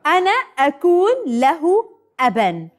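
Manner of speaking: very slow, word-by-word verse recital; slow recitation. Shown as a demonstration. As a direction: lead the children through it slowly. Leading children in slow group recitation. (ترديد بطيء كلمة كلمة)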